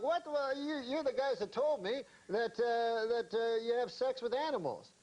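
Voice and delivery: rising up, half-offended, like a wronged miner; indignant. Retold or imitated. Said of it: "like, indignant".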